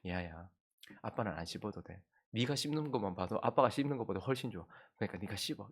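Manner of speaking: soft, gentle father turning down the gum; quiet tender refusal; tender fatherly reply. Retold or imitated. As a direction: hush it lovingly, like a grateful dad. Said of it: "은혜가 넘치는 마음으로".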